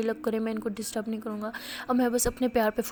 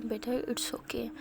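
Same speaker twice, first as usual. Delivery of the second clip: soft reassurance; 5 dB quieter, much slower than usual. Acted. Aunty comforting the embarrassed girl.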